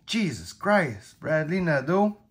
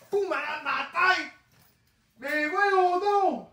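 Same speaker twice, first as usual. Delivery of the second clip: high and very slow; high, very slow cry of disbelief at the card; stunned disbelief; 12 semitones higher, slower than usual. Real, not acted. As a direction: stretch it out in disbelief.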